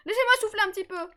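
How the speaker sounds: catching breath after effort; breathless, panting between words. Real, not acted. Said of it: "je suis en train de souffler".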